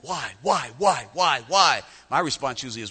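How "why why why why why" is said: nagging repetition. Acted. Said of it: "we will beat God with that".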